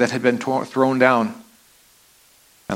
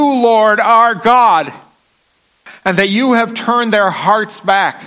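fervent prayer; 6 semitones higher, 3 dB louder than usual. Acted. Elijah prays before the altar.

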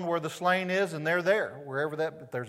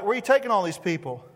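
eager question; 4 semitones higher, 5 dB louder, faster than usual. Acted. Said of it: "the disciples tell us here".

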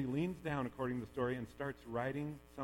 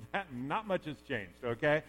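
wry smirk; 2 semitones higher, 7 dB louder than usual. Retold or imitated. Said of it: "smirking at me right now going".

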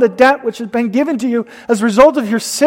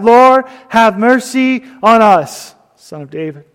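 crying out, restrained. Retold or imitated. Preacher retells two blind men calling to Jesus, restrained cry. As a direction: call out for mercy, lightly voiced. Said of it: "cried out".

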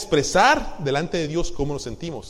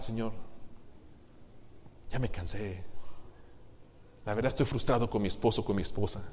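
quiet, weary prayer to God, much softer; tired prayer; 4 dB quieter than usual. Pretend. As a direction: pour out a worn-out complaint to the Lord. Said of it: "podemos venir delante de Él y decir". (el creyente ora cansado y frustrado, en voz baja)

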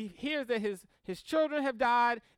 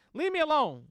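put-on childish plea; 4 semitones higher, 4 dB louder, faster than usual. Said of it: "this is my version".

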